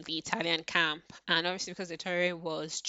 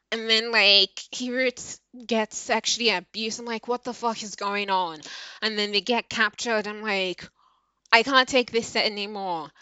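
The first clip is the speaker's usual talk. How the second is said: raised, higher-pitched exasperated rant; worked-up yelling; 4 semitones higher than usual. Real, not acted. Reader venting to listeners about the book's horrors, yelling. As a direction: let the outrage build into near-yelling. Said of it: "I'm so sorry I'm yelling at you guys".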